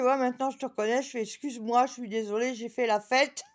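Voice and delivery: high, loud tipsy apology. Retold or imitated. Tipsy woman apologising to the neighbour, high and loud. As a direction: apologise like you've had a few.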